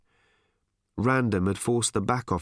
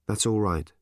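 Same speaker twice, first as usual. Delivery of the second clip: gentle. Acted. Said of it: "as gently as he knew how".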